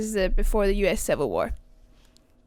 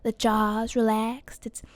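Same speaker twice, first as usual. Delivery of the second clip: relaxed-jaw Southern accent, open at the back. Shown as a demonstration. Showing viewers where it sits, Southern accent. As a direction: lots of space in the mouth, Southern accent. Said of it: "when I'm talking like this".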